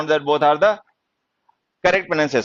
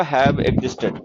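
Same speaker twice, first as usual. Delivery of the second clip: very slow, word by word dictation; 3 semitones lower, much slower than usual. Shown as a demonstration. Teacher dictating slowly to students, word by word.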